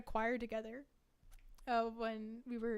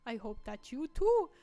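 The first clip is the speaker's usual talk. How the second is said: put-on Hungarian accent reading. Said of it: "Hungarian accent".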